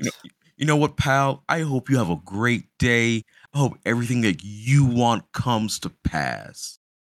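furious-sounding voice. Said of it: "compliments in, like, the most angry tone ever".

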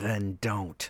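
through clenched teeth. Narrator reads Martin's curt reply to Nulby, through gritted teeth. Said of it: "Martin said through grit teeth".

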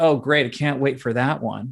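put-on sarcastic tone. Retelling a meeting invitation in Japan, imitating his own sarcastic reply. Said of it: "Sarcasm does not translate well".

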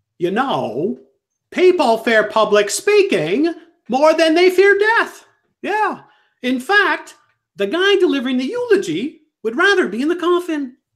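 very high-pitched, comic-style comedian voice. Doing a Jerry Seinfeld impression for the other speakers: Jerry Seinfeld impression. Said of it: "You wanna hear my Jerry Seinfeld impression?".

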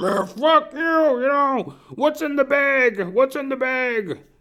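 mock shrill, high, loud drunken hollering. Retelling two drunks fighting outside the speaker's window, imitating a drunk yelling. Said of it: "he's yelling".

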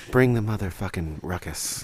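put-on public radio announcer delivery. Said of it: "That's my N P R voice".

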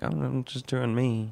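high, slow, drawn-out frog puppet voice. Describing people who don't care either way, in a Kermit the Frog voice. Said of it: "That's Kermit".

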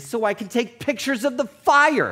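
irritated, snide, high swooping sarcastic snap, "fire" drawn out. Telling a story about a pilot and a photographer, the speaker imitates the photographer's sarcastic snap. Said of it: "the photographer snapped sarcastically".

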